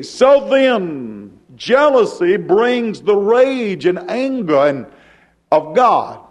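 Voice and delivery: rhythmic sermon cadence; preaching. Acted. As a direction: preach it out to the congregation. Preacher in full flow.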